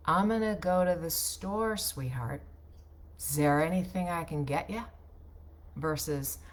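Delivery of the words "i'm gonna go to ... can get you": relaxed and unhurried; sloppy diction, slower; slowed down, casual. Shown as a demonstration. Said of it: "So let me slow that down".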